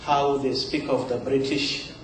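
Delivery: measured poem recital with pauses between phrases; poetry reading. Acted. Poet reads own poem to a live audience, measured recital. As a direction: recite it line by line, letting each phrase settle.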